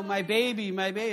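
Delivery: mock gushing new-parent voice; doting parent. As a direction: coo proudly like a besotted new parent. Gushing parent posting photos.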